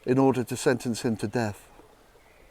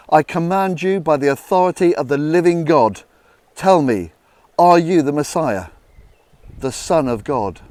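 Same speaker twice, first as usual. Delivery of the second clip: stern command; 2 semitones higher, 5 dB louder than usual. Acted. Chief priest demands Jesus answer.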